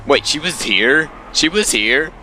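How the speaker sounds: high, stretched disbelieving question; genuinely stunned, asking twice; shocked disbelief. Real, not acted. Reader reacts in shock to text.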